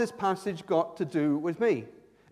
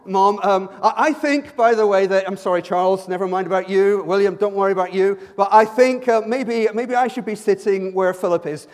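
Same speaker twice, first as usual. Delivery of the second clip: mock-cheeky, loud plea to Mum; cheeky child to the Queen; 6 dB louder than usual. Preacher imagining cheeky talk to the Queen, mock pleading. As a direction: pester her like a cheeky child. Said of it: "going up to the Queen and, uh, saying".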